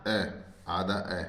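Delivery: slow, drawn-out "ए", then "आधा ए"; teacher sounding out "ए" slowly; demonstrating the vowel. Shown as a demonstration. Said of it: "आई का उच्चारण क्या हो जाएगा".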